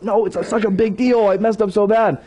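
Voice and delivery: retold anguished objection; distressed insistence. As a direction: argue back, mildly worked up. Arguing back with his wife.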